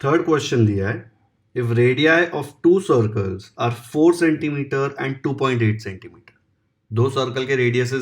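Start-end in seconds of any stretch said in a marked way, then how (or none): 1.5-6.4 slow, even dictation of the question; slow exam-question dictation; dictation reading. Acted. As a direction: read it out word by word for students to copy. Reads third question slowly.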